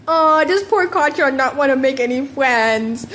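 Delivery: put-on slow, sing-song taunting baby talk; mocking. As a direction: drag it out to needle him. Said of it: "Midoriya mocked".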